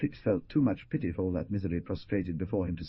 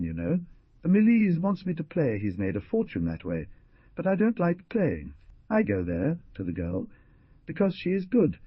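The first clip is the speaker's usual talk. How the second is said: raised pitch for the characters' speech; pleading young man, voiced higher; voiced dialogue; 5 semitones higher, 4 dB louder than usual. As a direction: lift the voice for the quoted lines.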